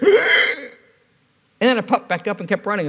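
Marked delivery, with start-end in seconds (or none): 0.2-0.7 high, sharp imitated gasp; crowd gasp. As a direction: mimic a shocked congregation gasping. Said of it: "you just heard".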